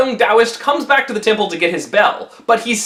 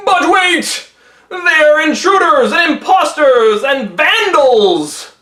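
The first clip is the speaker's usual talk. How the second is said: higher, slow, outraged protest; indignant accusation; 6 semitones higher, 4 dB louder, slower than usual. Acted. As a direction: denounce them with mock outrage. Taoists denounce the pilgrims.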